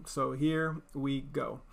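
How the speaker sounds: slow hushed whisper; a soft secret whisper before the story begins. Real, not acted. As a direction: draw them in with a slow whisper. Starting the story to listeners.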